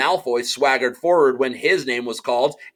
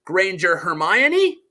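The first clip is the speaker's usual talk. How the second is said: calling out a name; 4 semitones higher, slower than usual. Acted.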